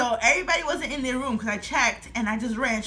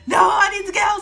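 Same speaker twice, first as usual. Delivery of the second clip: louder, higher, insisting on getting home; urgent insistence; 8 semitones higher, 8 dB louder than usual. Retold or imitated. Girl who just got hit insisting on going home, louder. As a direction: push it out, determined to get home. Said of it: "I was like".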